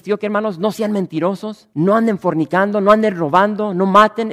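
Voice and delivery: loud, high string of commands; mock preachy commands. Pastor mocks how easily he lists rules to the congregation, loud commands. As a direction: bark out the don'ts like an easy sermon. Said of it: "es fácil para mí decirles".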